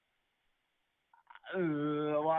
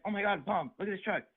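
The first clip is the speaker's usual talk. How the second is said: imitating a thrilled girl, high-pitched; high-pitched mock delight; retold excitement; 7 semitones higher than usual. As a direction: gush to mom over the truck. Acts out girl's delight at truck.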